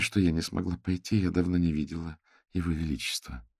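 ordinary delivery, nothing marked

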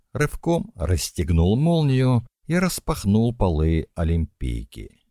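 ordinary delivery

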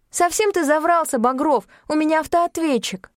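высоко и громче, с упрёком; уличить его во лжи; возмущённая героиня. A narrator's reading. (героиня возмущённо уличает Багрова)

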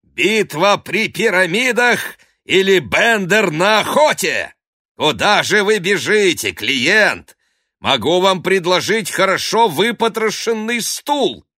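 high, loud taunting calls; mocking shout. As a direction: jeer at the fleeing rival. Ostap mocks the fleeing priest.

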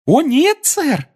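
very high joyful elf squeak; cheerful tiny elf; happy squeaky elf. Acted. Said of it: "радостно сообщил эльф".

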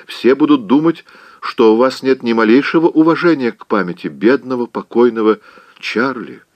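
high, fluttery scolding aunt; a flustered old aunt clucking in disbelief; fussy Aunt Pitty. Acted. Aunt scolds Scarlett for waving from her window, fluttery high.

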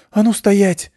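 loud ringing command, muffled by a helmet; ringing shout. Acted. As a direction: bark a sharp halt order. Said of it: "приглушённый шлемом, но всё равно звонкий голос".

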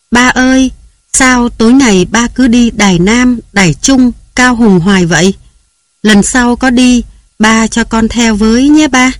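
put-on high, eager little girl pleading with her dad; a young daughter coaxing papa to take her along. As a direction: lift the voice up into a small child asking sweetly. Little girl begging her father.

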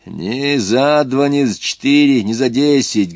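«Ни за два» медленно, громче, с нажимом; отчеканивай каждый отказ; упрямо по слогам. Acted. (упрямый отказ крестьянина, с нажимом и громче)

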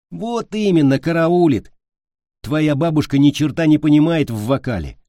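high, loud annoyed retort; angry. A narrator's reading. Boy dismisses his friend's grandmother's taste, angry. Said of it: "рассердился сын матери".

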